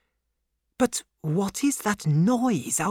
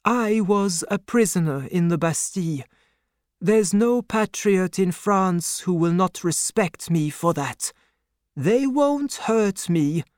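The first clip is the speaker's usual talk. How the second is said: higher-pitched, steady assurance; calm reassurance; 7 semitones higher than usual. A narrator's reading. Doctor tells banker of his standing, calmly assuring. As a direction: explain confidently that all is safe. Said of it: "the doctor answered calmly".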